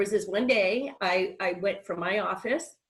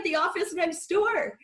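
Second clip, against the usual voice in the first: 1 retold quip; 10 semitones higher, 3 dB louder than usual. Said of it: "I'm like".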